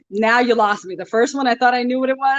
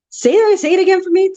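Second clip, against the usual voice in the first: eager; 10 semitones higher, 4 dB louder than usual. Real, not acted. Excited request to repeat slang.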